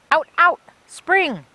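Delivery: put-on high, loud joyful baby shout. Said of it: "with a laugh and shouted".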